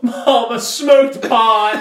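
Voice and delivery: high, slow laughing wail; mock sobbing confession. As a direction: blubber the confession, hammed-up. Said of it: "And I'm like".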